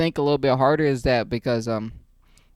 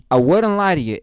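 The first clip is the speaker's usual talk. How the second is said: louder emphatic repeat; repeat for the boys; 2 semitones higher, 5 dB louder than usual. Shown as a demonstration. Vlogger repeating the line for the boys back home, emphatic. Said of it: "One more time for the boys".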